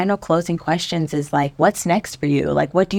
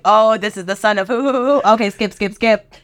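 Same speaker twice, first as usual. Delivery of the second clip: higher, hurried skimming voice; mock impatient reading; 4 semitones higher than usual. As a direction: breeze past it, bored. Mocking skipping genealogy scripture.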